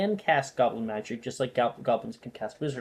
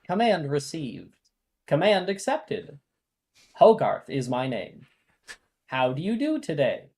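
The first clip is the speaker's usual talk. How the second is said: toy robot voice; 3 semitones higher, 5 dB louder than usual. Acted. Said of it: "I'll make a higher pitched voice for it".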